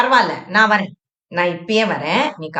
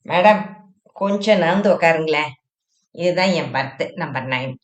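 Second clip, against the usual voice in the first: gently lowered voice asking to be seated; lightly voiced Shenbagam; 3 semitones lower than usual. Shenbagam asking the seated woman to move, polite and low.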